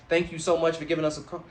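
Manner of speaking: quick, bright phone-rep greeting; chirpy call-center thank-you; customer service voice. Shown as a demonstration. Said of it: "that was my customer service voice".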